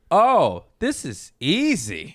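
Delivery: slow, drawn-out relief; pleasant relief. Retold or imitated. Man discovering a calmer girlfriend, pleasantly relieved. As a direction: savour it with a long, swooping "Oh".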